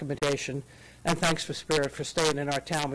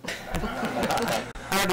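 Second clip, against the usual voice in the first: slow words through a laugh; amused, laughing at the stairs joke; 4 semitones higher than usual. Real, not acted. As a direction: laugh it off while answering. Joking about taking the stairs.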